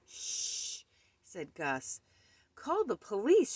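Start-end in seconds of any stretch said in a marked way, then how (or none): 0.1-0.8 long, soft shushing; hushing. A narrator's reading. Gus to the furious man beside the cradle, hushing. 2.6-3.6 high, raised order; angry shout. A narrator's reading. Furious man wants the baby ghost removed, shouting. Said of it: "shouted Mister Fizzle".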